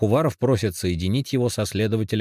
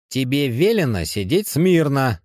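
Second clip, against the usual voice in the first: loud, higher barked command; growled order; 8 semitones higher, 6 dB louder than usual. A narrator's reading. Тихонов обрывает ёрзающего задержанного, loud growled command. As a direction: snap at him to sit still. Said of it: "рыкнул он".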